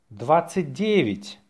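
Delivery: natural-speed dictation. Shown as a demonstration. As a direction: say it briskly, in one go.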